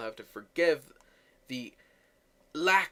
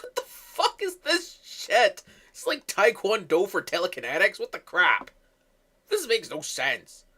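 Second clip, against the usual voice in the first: mock outrage; 4 semitones higher, 4 dB louder than usual. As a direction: drag it out in a silly shocked voice. Viewer mocking the kicking scene.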